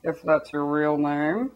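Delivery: a worried lawmaker choosing words carefully; tentative mock politician; timid lawmakers. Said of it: "lawmakers are like".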